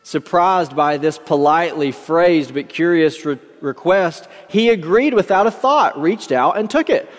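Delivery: measured, expressive read-aloud storyteller; story narration. A narrator's reading. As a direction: read the parable out with lifted emphasis. Reads a parable aloud.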